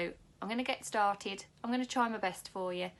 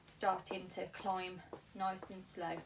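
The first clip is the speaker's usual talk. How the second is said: careful unhurried voice; 4 dB quieter, slower than usual. Shown as a demonstration. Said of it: "build that up nice and slowly".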